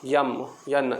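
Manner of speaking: "यम, यन" with a y glide before em and en; letters M and N said as "यम, यन"; village pronunciation of M and N. Retold or imitated. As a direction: rural "यम, यन", y sound up front. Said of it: "बोलते हैं वहाँ पे".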